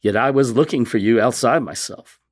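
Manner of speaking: resume the prayer firmly, phrase by phrase; earnest reading aloud, lifted at the start; reverent, measured prayer; heartfelt devotional reading. Real, not acted. Reads prayer from the Confessions.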